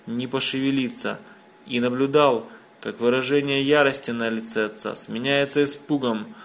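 ordinary delivery

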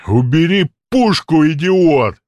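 booming, slow and loud; thundering voice. Acted. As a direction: thunder it from the doorway. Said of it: "Громовой голос прогремел от двери".

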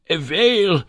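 high, loud shout of whale. A narrator's reading. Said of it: "shouted the professor".

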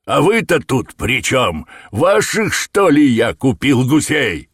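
loud, high angry tirade; a trader bellowing threats in a rage; furious shouting. A narrator's reading. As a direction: shout them out of the shop. Shopkeeper raging at intruders.

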